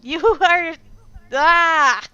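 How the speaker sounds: high, loud, emphatic scolding; exasperated tirade. Retold or imitated. Acted tirade at the film character.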